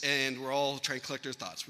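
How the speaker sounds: ordinary talk, nothing marked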